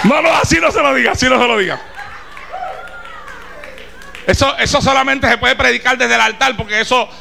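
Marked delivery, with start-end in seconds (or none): 0.0-1.8 a forceful no from the pulpit; emphatic shout. Real, not acted. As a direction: cut them off firmly. Preacher corrects the wrong approach.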